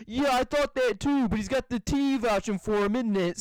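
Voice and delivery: lightly voiced British guard; imitated British guard. Retelling the Family Guy meme, imitated British guard. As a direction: mimic a mildly suspicious Brit. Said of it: "He's like".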